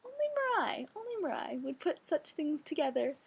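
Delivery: high, theatrical marvelling at her friend; mock dramatic exclaim. To her friend on her birthday, recalling her own reaction, lightly mocking amazement. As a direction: ham up the amazement, like a lightly played drama queen. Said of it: "And I'm just like".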